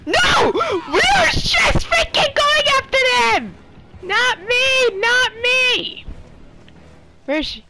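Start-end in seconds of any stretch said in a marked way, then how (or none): 0.1-6.1 high, loud screamed protest; frantic shout. Real, not acted. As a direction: yell it in outrage, very high and loud. Screaming at killer in game.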